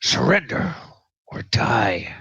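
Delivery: a touch of menace from a game villain; lightly voiced enemy archer. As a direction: give the order as a threatening bowman, lightly. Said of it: "and he says".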